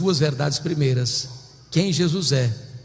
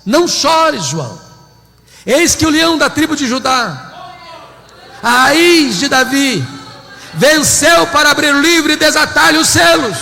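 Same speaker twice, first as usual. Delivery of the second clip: loud triumphant proclamation, higher; heavenly voice; 8 semitones higher, 9 dB louder than usual. Acted. Heavenly voice comforting weeping John, triumphant shout. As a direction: announce the Lion's victory with a ringing shout. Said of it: "ele escuta uma voz".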